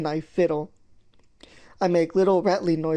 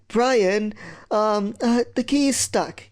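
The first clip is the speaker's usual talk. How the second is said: higher, hesitant plea to a brother; nervous admission; 4 semitones higher, much slower than usual. Acted. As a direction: break the bad news haltingly. Admitting the key is stuck.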